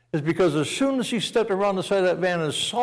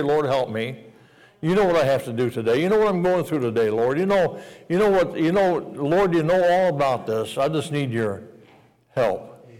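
prayer. Acted. Acting out a prayer.

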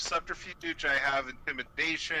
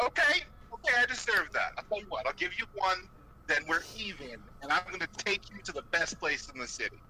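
placating Paulie; 3 semitones higher than usual. Acted. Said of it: "I'm just gonna be like".

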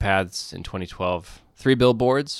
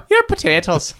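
laughing; 6 dB louder than usual. Acted. Laughing mock Irish jab.

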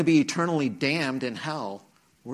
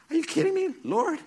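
much higher, louder incredulous cry; exasperated disbelief; 4 dB louder than usual. Retold or imitated. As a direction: protest to God in disbelief. Exasperated cry to God after rejection.

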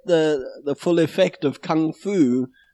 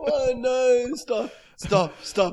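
high, weakening plea through laughter; helpless with laughter; 8 semitones higher, 4 dB quieter, slower than usual. Real, not acted. Host begging co-host to stop the accent, helpless with laughter. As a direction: beg for mercy while cracking up.

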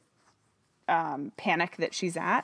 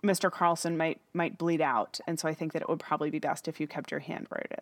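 lightly voiced calm doctor, a touch softer; imitating calm; 3 semitones lower, 4 dB quieter than usual. Burke soothing a panicking Hannah, mildly imitated calm. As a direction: talk her down gently, mock-soothing. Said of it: "very calmly says".

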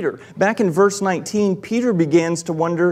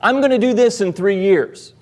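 mock boast, higher pitched; raised, emphatic bragging claim; boastful; 4 semitones higher, 4 dB louder than usual. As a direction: announce it like big talk. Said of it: "People who boast about the future".

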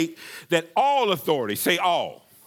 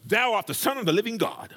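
blurted, quicker mock-Peter proclamation; impulsive declaration; 3 semitones higher, faster than usual. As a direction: declare it impulsively, a little fast. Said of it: "very impulsive".

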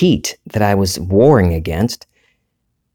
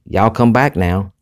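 Southern drawl. Shown as a demonstration. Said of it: "talks like this".

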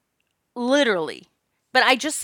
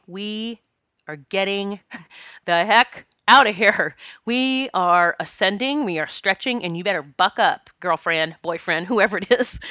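tough-love mirror pep talk. Retold or imitated. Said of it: "I look in the mirror and go".

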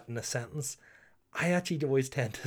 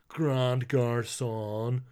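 very slow, hammed-up Belfast-accented French; much slower than usual. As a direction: stretch the French out in broad Belfast. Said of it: "speaks French in a Belfast accent".

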